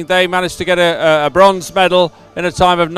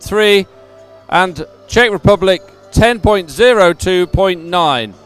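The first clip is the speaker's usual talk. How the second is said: measured, emphatic results read; results announcement; 2 semitones higher than usual. Real, not acted. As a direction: announce each placing clearly to the crowd. Reads out race results.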